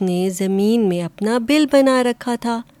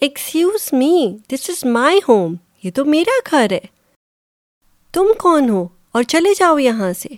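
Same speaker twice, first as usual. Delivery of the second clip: rude weasel; 4 semitones higher than usual. A narrator's reading. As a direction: brush the rabbit off rudely. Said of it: "the weasel very rudely talked". (بدتمیزی سے)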